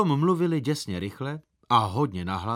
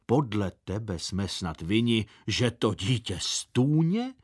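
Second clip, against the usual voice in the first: deep voice; 3 semitones lower than usual. Acted. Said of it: "tatínek pravil hlubokým hlasem".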